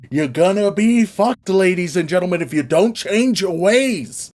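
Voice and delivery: Jonah preaching. Retold or imitated. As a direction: proclaim it like a mock doomsday preacher. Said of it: "to preach finally, right, and prophesy".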